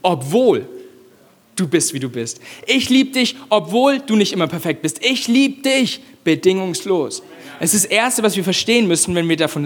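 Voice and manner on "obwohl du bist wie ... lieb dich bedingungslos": lightly voiced loving father; God's tender love. God to every listener, gentle and tender. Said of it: "Gott sagt".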